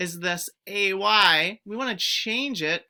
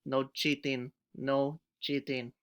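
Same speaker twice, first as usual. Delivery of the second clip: Broby voice; 5 semitones lower, 6 dB quieter than usual. Pretend. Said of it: "Broby says".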